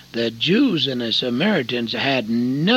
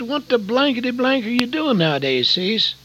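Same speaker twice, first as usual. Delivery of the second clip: put-on rowdy old friend; 11 semitones higher, 3 dB louder than usual. The speaker voiced, rowdy old friend.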